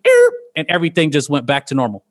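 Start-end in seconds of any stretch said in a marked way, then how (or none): 0.1-0.3 short "erp" sound effect; mouth-made cut-off blip; imitated stopping noise. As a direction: mimic a cartoon abruptly shutting off. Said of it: "it went".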